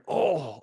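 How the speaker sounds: mild mock "oh" of pain; imitated pained groan. Podcaster imitating the killer getting hurt, mild pained groan. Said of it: "like he's getting hurt".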